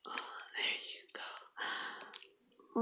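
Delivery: slow, drawn-out whisper. Acted. Girlfriend encouraging her partner, slow whisper. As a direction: breathe it out slowly.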